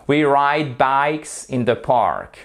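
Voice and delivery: slow careful English; model sentence. Shown as a demonstration. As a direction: say it slowly for learners to repeat. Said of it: "let's repeat the sentences". (phrase modèle lente à répéter)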